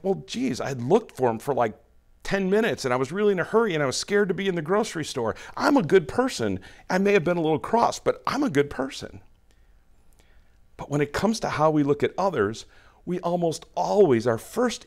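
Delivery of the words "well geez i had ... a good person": self-justifying. Pretend. Defending oneself in pretend quote.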